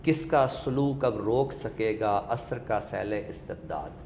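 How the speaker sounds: slow, measured recitation of a couplet; recited verse. Shown as a demonstration. Scholar reciting a verse to show repeated sibilants, slow and measured. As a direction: let each sibilant ring as you recite. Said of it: "एक सीन की आवाज़ है जो मुसलसल एक तकरार".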